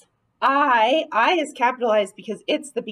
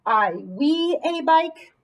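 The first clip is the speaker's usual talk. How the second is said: slow trial read; 3 semitones higher, slower than usual. Shown as a demonstration. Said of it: "That doesn't make sense".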